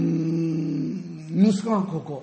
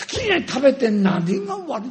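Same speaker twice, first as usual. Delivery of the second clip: retorting father; 7 semitones higher than usual. Retold or imitated. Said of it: "ってこう言っちゃったんですよ".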